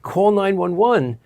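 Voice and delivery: high, slow, insistent instruction; slow and emphatic so she gets it; urgent but held back; retold urgent order.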